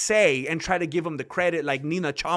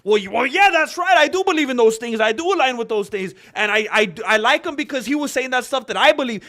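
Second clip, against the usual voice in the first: louder, higher insistent fan voice; defensive mock fan; 4 semitones higher, 5 dB louder than usual. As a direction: push back indignantly.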